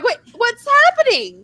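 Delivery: high, loud mock-frantic shout; panicked cry. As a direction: shout it like everyone around you is running. Acting out own panicked question.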